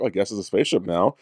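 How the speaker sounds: mildly dismissive imitation of a remark; lightly mock a bitchy, offhand reaction. Imitating a co-host's spaceship remark back at them, mildly dismissive. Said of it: "Sounded, like, dismissive and bitchy".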